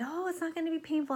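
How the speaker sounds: high, sing-song take on the endodontist; a lightly voiced chirpy dentist; mock dentist voice. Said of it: "And she said".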